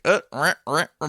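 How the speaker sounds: quick mimicked "rah, rah" noises; imitated back-and-forth noise. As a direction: act out the mask going on and off with noises. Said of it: "'cause he's like".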